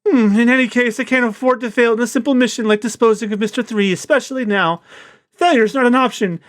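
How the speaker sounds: imitating the English dub Mister Two. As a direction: ham up the flamboyant villain. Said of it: "what voice I should do for Mister Two".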